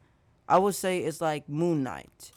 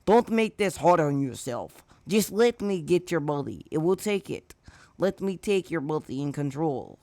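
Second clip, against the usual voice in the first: sludge villain voice; 3 dB louder than usual. Acted. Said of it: "The sludge villain speak again".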